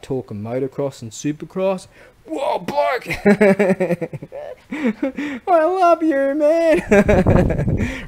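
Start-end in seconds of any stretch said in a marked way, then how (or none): 2.3-8.0 high, loud, slow gushing love yell; overjoyed mock declaration to a stranger in a bar; much higher delighted shout; excited gush. Excited at motocross talk.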